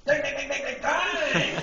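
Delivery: very high, loud rapid-fire repeats; hammed-up kids' yelp, building to a long last hit; escalated mock exclamation. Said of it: "then it took another step".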